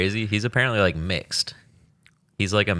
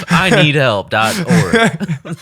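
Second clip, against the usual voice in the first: laughing; 2 semitones higher, slower than usual. Real, not acted. Joking list of porn sites.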